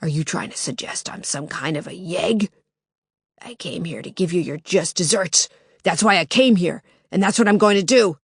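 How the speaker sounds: harsh smoker's voice, menacing; menacing intruder. Acted.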